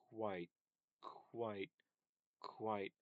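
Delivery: "quite" with lips moving from apart to rounded; k then w. Shown as a demonstration. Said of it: "your lips start apart ... go to wa".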